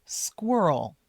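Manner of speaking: squirrel whispered. Shown as a demonstration. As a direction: breathe squirrel with the sk clear. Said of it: "Make sure we just say".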